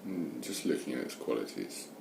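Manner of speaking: unhurried meditation guidance with long pauses; guided meditation. Real, not acted. Meditation teacher settling listeners into watching the breath, guided meditation. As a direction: guide listeners gently, leaving space between phrases.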